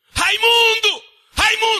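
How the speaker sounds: furious, very loud, very high shriek. Retelling his mother screaming for Raimundo, imitating his mother screaming. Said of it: "Minha mãe gritando".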